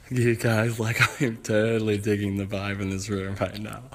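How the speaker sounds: laid-back hippie with a laugh. Acted. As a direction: lean into the groovy vibe. Hippie voiced.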